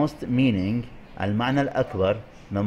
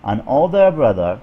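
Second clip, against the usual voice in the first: put-on "older" loud and drawn out; stress on older; 7 dB louder, much slower than usual. Shown as a demonstration. Teacher showing the key words, loud stress on "older". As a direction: lift the voice hard on "older". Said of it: "فركزنا".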